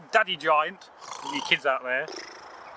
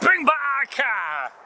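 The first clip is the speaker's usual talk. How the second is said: giant's cry; 5 semitones higher than usual. Acted. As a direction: roar it like an angry giant. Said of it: "cried the giant".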